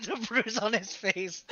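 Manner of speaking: slowed by real laughter; laughing. Real, not acted. Game master narrating the healed bruise, real laughing. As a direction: talk through laughter.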